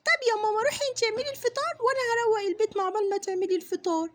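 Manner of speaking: put-on little girl. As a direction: coax mum for Friday treats. Daughter asks mum for treats. (صوت طفلة بتطلب من مامتها)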